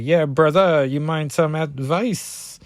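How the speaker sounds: put-on lightly done Cajun accent, slowing at the end; Gambit. Gambit offers Reptile advice, light Cajun accent. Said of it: "Gambit's all like".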